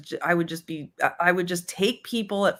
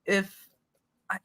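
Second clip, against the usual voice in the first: higher, shrugging don't-care tone; breezy dismissive attitude; 7 semitones higher than usual. Retold or imitated. Younger self shrugging off trusting people, lightly dismissive. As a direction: brush off the need to trust anyone. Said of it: "I had that attitude".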